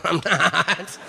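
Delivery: imitated woman talking through laughter; mock giggly denial; laughing denial. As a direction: deny it while laughing, as an impression. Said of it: "Why are you laughing?".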